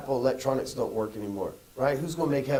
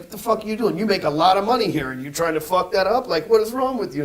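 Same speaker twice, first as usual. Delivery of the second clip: higher, mock-angry scolding of an employee; boss scolding; 4 semitones higher, 5 dB louder than usual. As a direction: chew out a worker who's messing up. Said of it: "We call them in the office, like".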